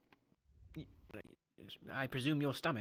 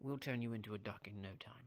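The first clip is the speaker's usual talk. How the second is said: whisper; 6 semitones lower, 8 dB quieter than usual. Real, not acted. Late night, quiet in-game teasing.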